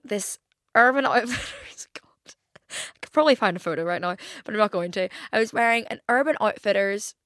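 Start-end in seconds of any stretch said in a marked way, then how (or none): 0.0-5.1 giggly whisper. Real, not acted.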